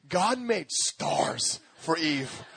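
1 slow tender line. Acted. Tender sermon point.

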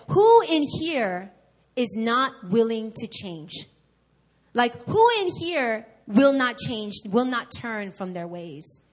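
slow, loud pastor's rebuke; stern rebuke. Retold or imitated. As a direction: hammer each question slowly at the kids. Pastor rebuking youth group point blank.

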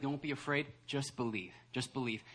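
soft, low gentle reassurance; calm a frightened parent quietly; Jesus. Acted. Preacher as Jesus telling Jairus to believe, softly reassuring. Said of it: "then Jesus is like".

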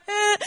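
high, loud mock child's whine; short put-on whimper; imitated whine. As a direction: whine like a fussy kid. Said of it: "like, whine".

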